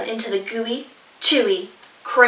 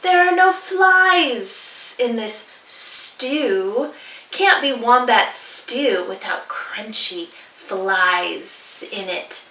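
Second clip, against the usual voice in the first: lizard voice; slower than usual. Acted. Blue Tongue lizard speaks.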